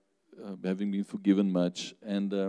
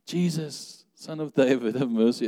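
crying out; 5 semitones higher than usual. Acted. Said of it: "blind beggar on the side of the road screaming".

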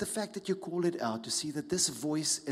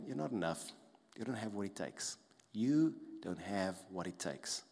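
quiet put-down, slowing on the repeat; softly condemn, like an inner critic; critical inner voice; 4 semitones lower, 4 dB quieter than usual. Acted. Critical voice telling you you fall short, quietly critical. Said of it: "The critical voice saying".

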